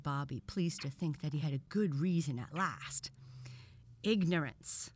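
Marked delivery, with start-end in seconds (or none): 4.0-4.9 mild indignant exclamation; crying out. A narrator's reading. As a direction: cry it out as a curt verdict. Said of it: "cried the professor".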